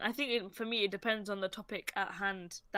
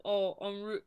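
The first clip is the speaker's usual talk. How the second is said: harsh London slang; slower than usual. Shown as a demonstration. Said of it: "we always say it really harshly".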